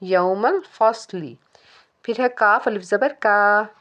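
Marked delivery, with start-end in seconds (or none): 0.0-1.4 यौमल फसली recited slowly with a short final ली; यौमल फसली, no stretch on the final ee; short ending. Shown as a demonstration. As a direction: keep the last vowel of फसली to one beat. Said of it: "short पढ़ना है".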